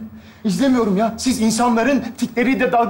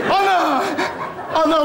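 mock creature word; 5 semitones higher, slower than usual. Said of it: "mı demek istiyor".

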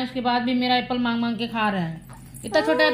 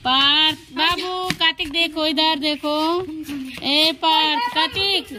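calling out; 4 semitones higher than usual. Real, not acted. Calling children to look at baby.

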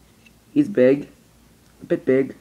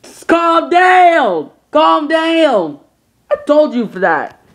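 shouting; 13 semitones higher, 8 dB louder, slower than usual. Acted. Toy characters arguing.

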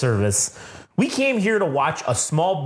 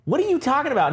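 confused, pitched way up; high confused what; 11 semitones higher than usual. Retold or imitated. Fack baffled on the phone, high confused voice. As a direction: play dumb, squeaky and baffled. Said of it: "he's like".

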